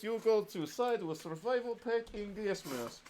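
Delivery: light mock Russian accent, joking. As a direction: brag about the AK like a comrade. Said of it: "I should probably stop the Russian voice".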